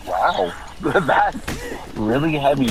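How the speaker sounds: slow, laughing through the words; laughing reaction. Real, not acted. Friend recalling the sad ending, laughing slowly through it. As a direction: chuckle while you say it.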